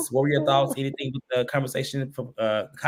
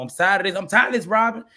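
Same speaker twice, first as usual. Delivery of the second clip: pitched-up imitation of a fed-up rant; mock going off; 6 semitones higher than usual. Co-host retelling the husband's phone blowup, mock fed-up. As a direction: act out him losing it, higher voice. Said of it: "he went off on the phone".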